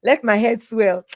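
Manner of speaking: usual speaking voice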